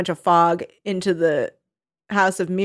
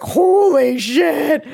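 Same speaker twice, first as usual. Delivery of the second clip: high, loud, drawn-out amazement; mock astonishment; 7 semitones higher, 5 dB louder, much slower than usual. Retelling his reaction when she takes his arm, mock astonishment. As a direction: stretch it out in hammed-up shock.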